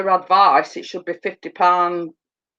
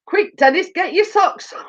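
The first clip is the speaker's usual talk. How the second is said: higher, laughing, teasing call to Dennis; laughing mock shout; 10 semitones higher than usual. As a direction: yell the joke through laughter.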